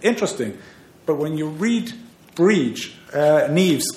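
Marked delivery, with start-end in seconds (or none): 0.0-0.6 a retold, mock-amazed "Oh my God", pitched much higher; mock astonishment. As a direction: act out the surprise at reading their brief, then a dry "Interesting". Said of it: "I'm reading their reply brief and go".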